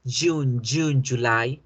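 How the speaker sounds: "June" and "July" starting with voiced dj; "July" as dju-LAI; Y de yuca sound. Shown as a demonstration. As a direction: model "June" like a firm Colombian yuca. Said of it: "como la Y de yuca".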